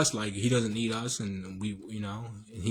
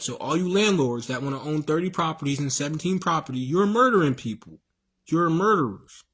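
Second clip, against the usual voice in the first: rising, louder accusing preach; heated rant; 3 semitones higher, 4 dB louder than usual. Real, not acted. Preacher ranting at greedy landlords, voice climbing louder. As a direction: call the landlords murderers with rising force.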